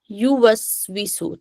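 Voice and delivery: युवस्विसु slowly, "yu", "wi", "su"; correct damma and kasra. Shown as a demonstration. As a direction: draw out युवस्विसु with pure "u" and "i". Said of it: "यो नहीं पढ़ेंगे". (युवस्विसु, धीरे, शुद्ध ऊ और ई)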